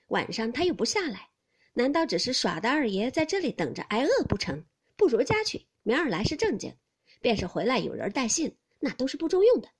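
lively and knowing, talk him out of waiting; brisk maid. Acted. Maid keeps explaining. (俏皮爽利的丫头)

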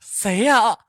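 panicked, high and loud, shouting who's there; terrified cry. A narrator's reading. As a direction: scream out in fright at a voice in the dark. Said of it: "发出惊恐的声音道". (惊恐地高声大喊)

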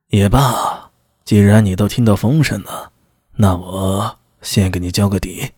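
low voice, slowing as he decides to confide; a hint of a superior letting someone in on it; lightly voiced magistrate. Magistrate about to let his officer in on it, lightly voiced and low.

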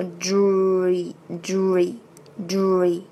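"dream" with a firmly voiced "dr"; voiced consonant demo. Shown as a demonstration. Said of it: "浊辅音一定要出来". (“dream”浊辅音发足)

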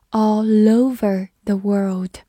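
"all over the world" with "all" running into "over"; linked pronunciation. Shown as a demonstration. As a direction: link the l of "all" onto "over". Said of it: "中间有个连读". ("all over"连读)

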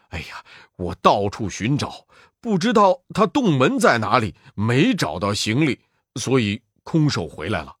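sheepish Sandy. Acted. Sandy explains failure.

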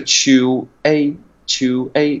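"chu A" said slowly as two separate sounds; slow dictionary-style split; syllable by syllable. Shown as a demonstration. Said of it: "词典里面不标".

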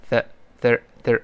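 "th-" alone, tongue between the teeth. Shown as a demonstration. Teacher shows students the TH sound, tongue-out demonstration. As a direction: slowly isolate "th-" with the tongue out. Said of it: "T H呢要吐舌头".

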